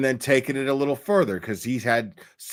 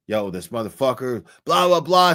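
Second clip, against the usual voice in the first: louder, rising mock shout across a bar; mock yell across the bar; 4 dB louder than usual. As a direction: call out like a drunk picking a fight. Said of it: "starts yelling across the bar".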